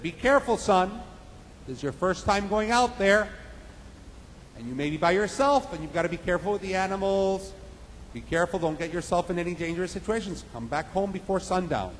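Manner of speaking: a mother gently warning her son; cautioning mother. Retold or imitated.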